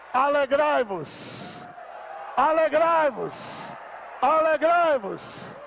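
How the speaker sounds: slow drawn-out call to rejoice; slow rousing command to the church; preaching exhortation. Real, not acted. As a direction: stretch each syllable like a summons.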